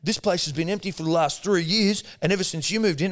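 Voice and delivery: imitating the cleaner's complaint about three years empty; mock cleaner. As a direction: whinge it in a pinched high mock voice. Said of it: "cleaner voice".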